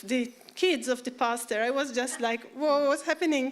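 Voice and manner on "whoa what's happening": higher, louder startled wonder; overwhelmed whoa; retold astonishment. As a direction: react amazed, pitch up. Retelling own astonishment.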